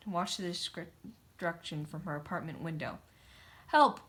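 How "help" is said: high, loud yelp of help; cry for help. A narrator's reading. Engineer yelling to townsfolk, high loud cry. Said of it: "cried the engineer".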